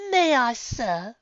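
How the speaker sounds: slow, mocking sneer. A narrator's reading. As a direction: drag it out with contempt. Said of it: "Rarity sneered".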